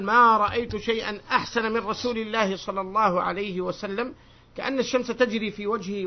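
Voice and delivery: formal reading aloud to students; projected classroom recitation of a text; hadith recitation. Acted. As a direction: read the narration out firmly. Reads chain and hadith aloud.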